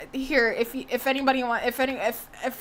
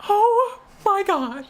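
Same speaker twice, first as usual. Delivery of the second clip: slow, louder, near-crying oh my God; distressed wail; 6 semitones higher, 4 dB louder, slower than usual. Real, not acted. Streamer reacts to the show, wailing in distress. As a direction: let it break into a whimpering wail.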